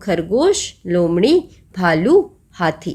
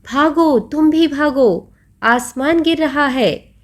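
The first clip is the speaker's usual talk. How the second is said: panicked warning; 5 semitones higher than usual. Acted. Rabbit and fox cry warning.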